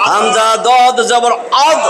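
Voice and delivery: হামজা দদ জবর আদ spelled out slowly, আদ rising; slow spelling demo. Shown as a demonstration. Teacher spelling out the syllable for learners, slow and deliberate. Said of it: "এই হামজা".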